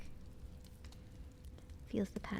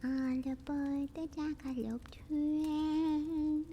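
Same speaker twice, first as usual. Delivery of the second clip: conductor call; 8 semitones higher, much slower than usual. Pretend.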